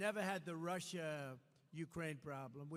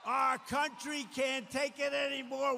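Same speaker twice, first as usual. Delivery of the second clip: slow, louder and higher roar; rally shout; 4 semitones higher, 5 dB louder than usual. Real, not acted. Rallying voters against Harris, slow booming shout. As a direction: build to a booming crowd call. Rally climax, roaring at crowd.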